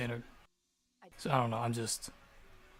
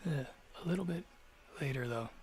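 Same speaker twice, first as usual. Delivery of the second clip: stumbling retake. Real, not acted. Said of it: "I can't talk. My mouth is so dry".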